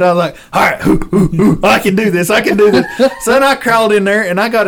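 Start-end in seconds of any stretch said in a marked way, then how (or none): 0.5-2.8 breathy hoo hoo pep talk; psyching himself up. Retold or imitated. Teen hunter psyching himself up to check the bear. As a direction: puff yourself up to crawl in.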